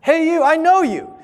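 high, loud call across a room; retold shout. Elderly dean calling out to a stranger, loud and high. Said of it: "someone shouted".

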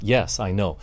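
ordinary delivery

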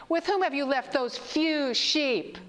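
slow, sneering sarcasm; mock the question slowly; sarcastic. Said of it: "Can you feel the sarcasm?".

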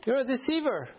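mock accusation. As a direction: drag out each word like an accusation. Angry man repeating accusation.

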